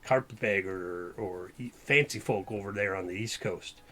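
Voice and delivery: lightly voiced Western sheriff, fed up; a hint of a grumbling frontier sheriff; Western Pogli voice. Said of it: "it's my Pogli voice".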